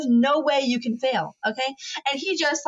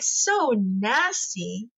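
drawn-out disgust; much slower than usual. Retold or imitated. Watching husband eat soggy fries.

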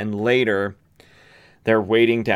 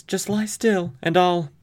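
higher, pleading daughter; voicing the daughter; 9 semitones higher than usual. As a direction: reassure the dying father urgently. Daughter voiced over father.

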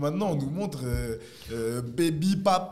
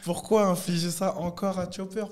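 pleading outcry; 7 semitones higher, 4 dB louder than usual. Real, not acted. Pleading about Chopper.

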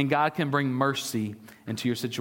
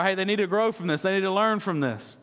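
mock dad; 4 semitones higher than usual.

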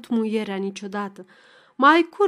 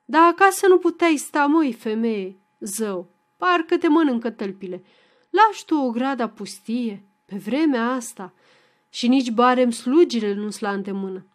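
upset scolding; 4 dB louder than usual. Acted. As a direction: scold her for leaving the house empty. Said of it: "supărată".

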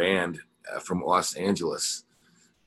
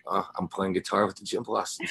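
laughing through the remembered thrill; half-laugh of amazed joy; laughing disbelief. Retold or imitated. Guitar tech handed the guitar onstage, laughing in disbelief. And I was like.

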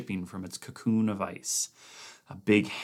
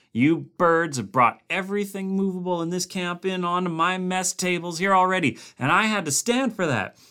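raised, complaining cook's voice; gruff camp cook; 10 semitones higher, 6 dB louder than usual. A narrator's reading. Cook scolding Blair about the meat box, gruff and raised. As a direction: grumble threats at the scientist over the meat box.

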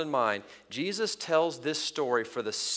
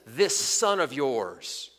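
slow, scornful this son of yours; drawn-out, dismissive son of yours; much slower than usual. Acted. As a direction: spit out the words coldly. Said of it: "He dismissively".

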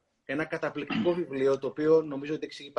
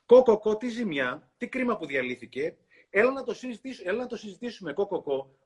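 clucking hen; 6 semitones higher than usual. Acted. Hen comforting the boy, high clucking voice. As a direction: chirp it out like a fussy kind hen.

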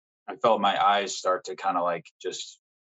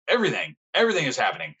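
fast, high, tumbling words; overwhelmed; 7 semitones higher, much faster than usual. Retold or imitated. Answering his friend on the phone, overwhelmed. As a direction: rush it out, overwhelmed. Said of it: "And I'm just like".

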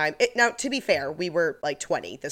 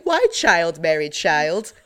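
slow, louder meme-quote question; mock bewilderment; 6 dB louder, slower than usual. Friend quoting a meme about married friends, mock bewilderment. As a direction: puzzle over it slowly and loudly, in mock disbelief. Voicing the meme's silly question.

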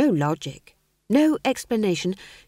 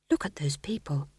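hushed breathy aside; whisper; 5 semitones lower, 6 dB quieter than usual. A narrator's reading. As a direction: whisper it as if nobody may hear. Howell's private dismayed thought.

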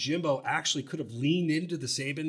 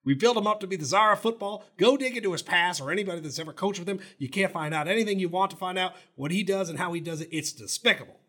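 higher, fast, indignant mock coach; Jimbo impression; 4 semitones higher, faster than usual. Host finishing Jimbo's quote about Saban, hammed-up rant. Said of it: "this is my favorite quote".

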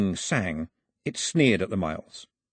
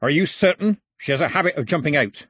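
raised, loud, doubting questioning; suspicious; 6 semitones higher, 4 dB louder than usual. A narrator's reading. Voice behind the hatch doubting the gentleman, suspicious. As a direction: doubt the caller's word. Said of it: "a voice full of suspicion".

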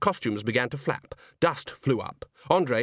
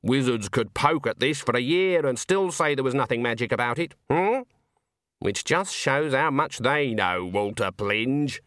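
a knowing granny, measured at the end; lightly voiced Granny; 3 semitones higher than usual. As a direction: lightly play an old witch making her point.

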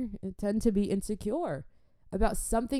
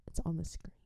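retold whispered rebuke; 2 semitones lower, 8 dB quieter, faster than usual. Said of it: "and be like".

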